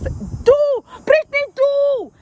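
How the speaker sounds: high, loud, curt command; imitating coach order.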